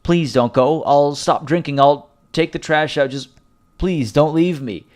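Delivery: lightly voiced desperate spouse; mock desperate plea. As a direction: plead like a drunk partner, half-joking. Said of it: "very desperate".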